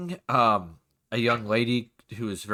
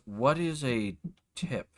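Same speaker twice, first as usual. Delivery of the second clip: confused; 5 dB quieter than usual. Acted. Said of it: "she kinda looks confused and goes".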